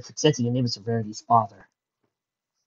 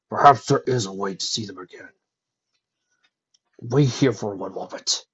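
lightly voiced dragon, a little lower; thoughtful dragon; 3 semitones lower than usual. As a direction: ponder it in a measured dragon voice. Dragon figure's lines.

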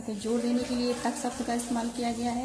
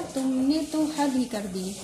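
slow, tो and ही both leaned on; stress on तो and ही. Shown as a demonstration. Teacher explaining particles, slow with तो and ही stressed. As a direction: slowly lean on तो and on ही. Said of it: "ये दोनों शब्द का इस्तेमाल करके इस वाक्य में जोर दिया जा रहा है".

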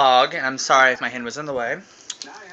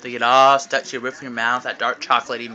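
teasing; 3 semitones lower, 3 dB quieter than usual. Real, not acted. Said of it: "rub it in somebody's face".

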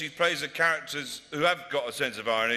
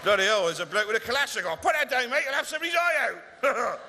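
alarmed West Country yell; 7 semitones higher than usual. Acted. West Country reporter shouting at a gunman, high and panicked.

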